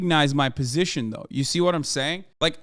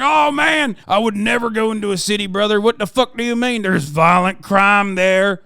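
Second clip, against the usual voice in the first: louder mock bro voice, scared of cities; mocking dumb bro; 4 dB louder than usual. Mocking beer-belly guys afraid of cities, hammed-up bro voice. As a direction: ham up a cowardly truck guy. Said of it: "They're like".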